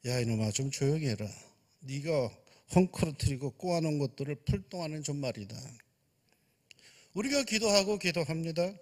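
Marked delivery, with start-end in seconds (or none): 0.1-5.6 God's grumbling reply. Acted. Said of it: "그러자 하나님께서 이러셨답니다".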